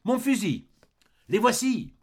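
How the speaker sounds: high, loud breathless cry; breathless shout. A narrator's reading. Street boy warning the barricade, breathless high shout. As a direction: burst in out of breath and yell the warning. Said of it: "tout essoufflé en disant".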